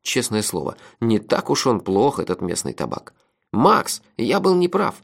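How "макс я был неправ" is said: high, drawn-out confession; unnaturally ringing voice. A narrator's reading. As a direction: call it out slowly in a high, ringing voice. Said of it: "Голос Мелифара показался мне неправдоподобно звонким". (неестественно звонким голосом)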